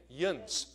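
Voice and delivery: "Yins" said as a short nasal yinz; central Pennsylvania yins. Shown as a demonstration. Pastor showing the congregation the Pennsylvania plural, casually. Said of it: "how they say it in Illinois and s-, central Pennsylvania".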